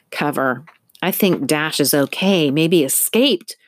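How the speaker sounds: panting through the words; breathless, still catching her breath. Acted. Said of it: "still breathing heavily".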